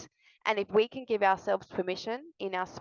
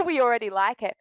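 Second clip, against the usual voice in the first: laughing; 3 semitones higher, 5 dB louder, faster than usual. Pretend. Voicing viewers teasing her.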